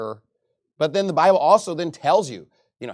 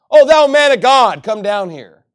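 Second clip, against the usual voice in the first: high, loud, slow sneering Oh, thou man of God; mocking; 6 semitones higher, 12 dB louder, slower than usual. Captain mocks Elijah's name, high sneering call. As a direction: drag it out with contempt. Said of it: "He's mocking his, his name".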